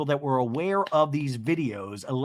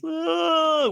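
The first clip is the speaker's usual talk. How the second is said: a high, hammed-up sob sound; mock crying wail; 14 semitones higher, 3 dB louder than usual. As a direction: imitate a reality-star cry face. Shannon's crying face imitated.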